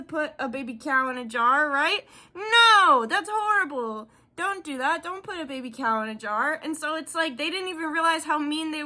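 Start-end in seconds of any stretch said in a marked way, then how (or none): 2.3-6.6 high, indignant no; playful higher protest; mock outraged scolding. Real, not acted. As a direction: scold like shocked by cruelty. Scolding about caged cow.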